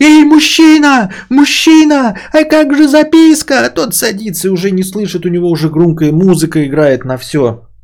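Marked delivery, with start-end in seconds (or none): 0.0-3.6 very high, stretched-out, drawn-out shout. Retelling how a man on his balcony shouted after another man, retelling a shout after someone. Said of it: "кричит".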